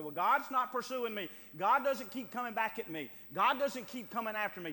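loud, scoffing doubter's claim; hammed-up scornful denial; mock objection. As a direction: put on a stubborn denier's protest.

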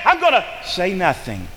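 abrupt drop from yelling to ordinary volume; sudden climb-down. Acted. Jacob backing off after his rage, suddenly subdued. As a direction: deflate right after the outburst. Rage collapses into saying nothing.

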